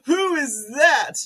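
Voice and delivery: high, loud, slow; shocked question. Real, not acted. Vlogger shocked at Judge Jeanine's photo, loud and high. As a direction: gasp out who it is.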